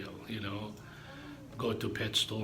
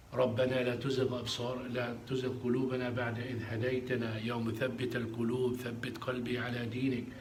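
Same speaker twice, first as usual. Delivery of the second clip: fast, run-together Arabic supplication; rapid dua recitation; much faster than usual. Real, not acted. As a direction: rattle off the familiar prayer.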